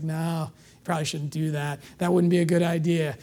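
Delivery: soft, low inner voice, gently warning; a hushed conscience nudging you; quiet little voice of conscience; still small voice. Retold or imitated. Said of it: "you hear the still small voice".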